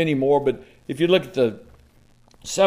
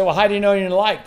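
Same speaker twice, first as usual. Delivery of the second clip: skeptical question; 7 semitones higher, 4 dB louder, much faster than usual. Retold or imitated. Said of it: "You say".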